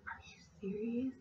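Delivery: high, soft incredulous question; disbelief. Retold or imitated. Attendant learns the thief is a colleague, high disbelief. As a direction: sound stunned by the news. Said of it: "And I'm like".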